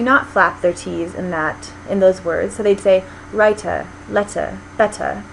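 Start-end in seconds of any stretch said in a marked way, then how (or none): 3.3-5.2 writer, letter, better with crisp full T's, R's dropped; full British T. Shown as a demonstration. Teacher demoing unflapped RP T's. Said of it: "So it's a full T".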